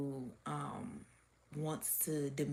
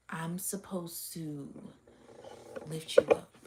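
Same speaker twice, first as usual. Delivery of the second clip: whispered thought; slower than usual. Retold or imitated. Voicing a jealous person's thoughts.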